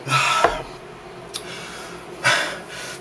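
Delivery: breathless, panting between words; out of breath. Real, not acted. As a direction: gasp it out, still winded. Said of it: "lost my breath from that".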